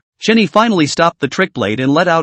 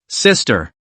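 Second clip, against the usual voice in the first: cold; 5 semitones lower than usual. Acted. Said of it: "Aaron's tone remained cold".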